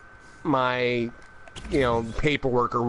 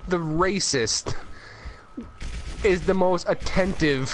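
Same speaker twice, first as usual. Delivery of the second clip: nature documentary; 3 semitones higher, slower than usual. Real, not acted. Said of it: "you sounded like a wildlife documentary".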